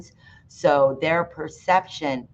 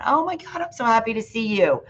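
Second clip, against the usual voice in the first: gushing, much higher, quick happy squeal; happy greeting; 8 semitones higher, faster than usual. Shown as a demonstration. Showing dog owners an emotional tone, thrilled and high-pitched. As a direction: greet a beloved dog with overjoyed excitement. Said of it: "what would be an emotional tone?".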